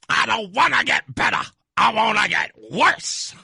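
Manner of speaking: repeating the caller's line with delight; gleeful echo of the caller's rant. Retold or imitated. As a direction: savor the words, hyped up. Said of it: "don't know why that hypes me up".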